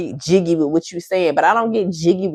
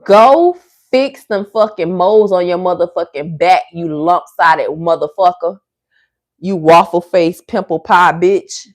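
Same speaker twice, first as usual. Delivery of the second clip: insult tirade; 4 dB louder than usual. Real, not acted. Insulting commenter.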